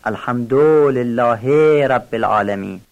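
الحمدلله with the "du" dragged out long, "alhamdooo"; wrongly stretched damma. Shown as a demonstration. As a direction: stretch the short vowel after the dal in الحمدلله. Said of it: "کشش ضمهٔ داله".

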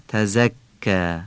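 "تزکا" said very slowly with a clear, buzzed z; drawn-out "تزکا", careful z and doubled k; careful zay articulation. Shown as a demonstration. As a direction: model "تزکا" slowly, z not lisped on the tongue tip. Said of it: "دقت کنید نوک زبونی نشه".

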